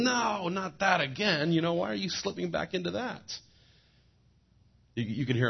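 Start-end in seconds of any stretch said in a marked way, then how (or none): 0.0-3.2 higher, louder, mock-weary groan; a guardian angel sighing at us for slipping again; exasperated angel. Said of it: "I wonder if they're sitting there going".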